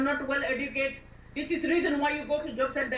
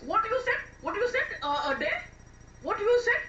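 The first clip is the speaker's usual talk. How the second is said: raised pitch, repeated sharp demand; affronted challenge; 5 semitones higher than usual. Acted. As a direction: demand it back, indignant.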